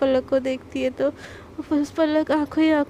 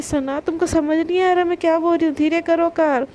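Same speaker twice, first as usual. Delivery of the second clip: angry; 2 semitones higher, 4 dB louder than usual. Retold or imitated. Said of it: "पलक एकदम गुस्से में बोलती".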